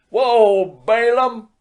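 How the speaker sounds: loud, high bellow at the mule; full-throated whoa to the beast; drunken shout. A narrator's reading. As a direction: yell it out like a tipsy old farmer. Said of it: "He arose and shouted".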